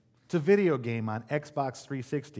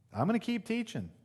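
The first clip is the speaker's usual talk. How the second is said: higher insistence; 9 semitones higher than usual. Acted. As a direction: repeat "I'm gonna keep teaching" much higher, stress on "gonna". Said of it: "Jesus says".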